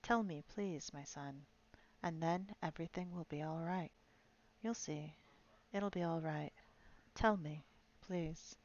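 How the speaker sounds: a lightly voiced soft, coaxing reassurance; gentle soothing voice. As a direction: coax the dying man gently to talk. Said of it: "a quiet, gentle, soothing voice".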